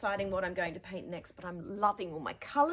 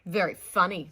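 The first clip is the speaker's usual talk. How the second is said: sulky; 11 dB louder than usual. Acted. Sulky girl answers teacher.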